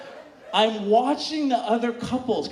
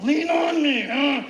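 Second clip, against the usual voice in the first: mock pleading shout; 2 semitones higher than usual. Acting demand in sex scene.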